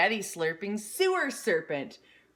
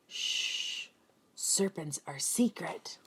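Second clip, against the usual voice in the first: unvoiced, hushed secret; whisper; 5 dB quieter, slower than usual. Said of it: "and whispers to Sammy".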